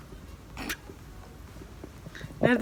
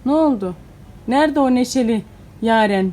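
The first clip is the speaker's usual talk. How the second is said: louder, coaxing a smile out of her; cheery coaxing; 2 semitones higher, 6 dB louder than usual. Real, not acted. Mother cheering up her sulky daughter, loud and playful.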